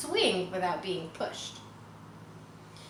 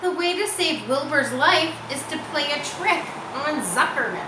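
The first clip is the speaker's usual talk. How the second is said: higher, louder plotting voice; scheming spider; 7 semitones higher, 6 dB louder than usual. Acted. Charlotte plotting to save Wilbur, eager and higher. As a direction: announce the trick with eager glee. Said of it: "she said to herself".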